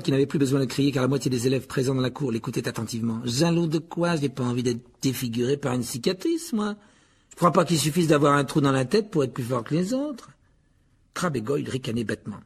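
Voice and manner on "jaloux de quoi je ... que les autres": lightly voiced sneering taunt; Malfoy, scornful bully. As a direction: taunt him with mild disdain. (raillerie dédaigneuse de Malfoy)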